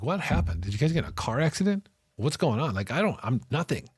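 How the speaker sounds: frantic worry over the unanswered phone; retold panic. Inmate on the phone to his absent family, panicked. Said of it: "I'm freaking out".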